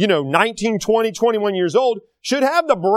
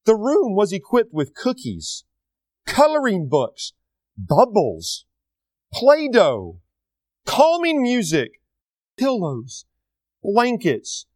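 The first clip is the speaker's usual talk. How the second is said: sarcastic list; slower than usual. Real, not acted. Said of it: "listen to this, you ready?".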